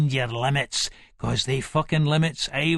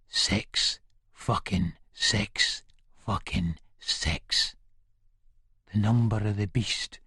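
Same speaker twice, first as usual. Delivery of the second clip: soft, slow, lower whispered threat; menacing whisper; 6 semitones lower, 5 dB quieter, slower than usual. Acted. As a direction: breathe it slowly into his ear like a curse. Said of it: "I whispers, all softly in the cunt's ear".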